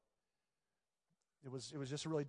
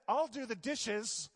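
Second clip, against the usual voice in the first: slow, grudging, through clenched teeth; through gritted teeth; 5 semitones higher, 3 dB louder, slower than usual. Acted. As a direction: force the words out unwillingly. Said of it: "with his teeth gritted".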